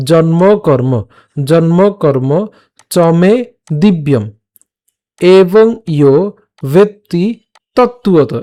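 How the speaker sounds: "জন্ম কর্ম চমে দিব্যম" in separate, careful pieces; careful pronunciation demo. Shown as a demonstration. Teacher shows learners how the shloka is pronounced, "জন্ম কর্ম" piece by piece. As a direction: say "তত্ত্বত" as tot-tu-o-to, every syllable sounded. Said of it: "খেয়াল করুন উচ্চারণটা কেমন হচ্ছে".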